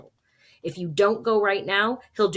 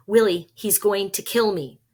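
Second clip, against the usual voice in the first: panic; 3 semitones higher, 6 dB louder than usual. Acted. Boy panicking at gunpoint.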